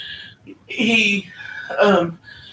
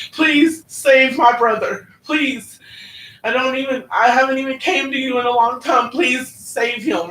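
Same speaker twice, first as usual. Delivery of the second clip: pleading prayer; 2 semitones higher than usual. Retold or imitated. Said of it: "I'm telling Jesus what I'll do".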